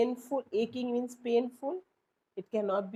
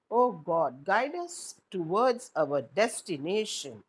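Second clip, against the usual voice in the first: dramatic address; 4 dB louder, slower than usual. Shown as a demonstration. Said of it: "An apostrophe is direct address".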